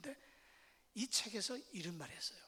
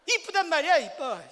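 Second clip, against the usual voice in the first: much louder, higher annoyed shout; irritated husband yelling; 6 semitones higher, 15 dB louder than usual. Retold or imitated. Husband yelling at his wife who keeps asking if she is pretty, annoyed shout. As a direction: snap the compliment back in exasperation. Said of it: "억양을 틀어버려가지고".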